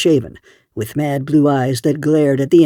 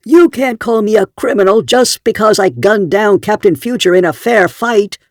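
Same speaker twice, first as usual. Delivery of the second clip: hammed-up, higher and loud mock roar; pretended rage; 7 semitones higher, 4 dB louder than usual. A narrator's reading. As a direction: fake an outraged roar. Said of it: "a roar of pretended rage".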